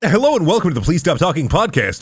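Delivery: fake ad read. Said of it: "record a fake ad read".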